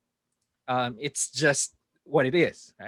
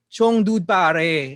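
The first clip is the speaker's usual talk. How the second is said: slow, drawn-out dude-speak; stretched-out mock buddy talk, a bit loud; mock loud talker; 4 dB louder, much slower than usual. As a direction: imitate someone talking for everyone to hear. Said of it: "wag mo lakasan ang boses mo".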